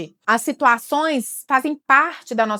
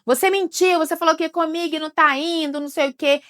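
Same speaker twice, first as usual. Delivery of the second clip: put-on accusing child; 5 semitones higher than usual. Child accuses parent of lying.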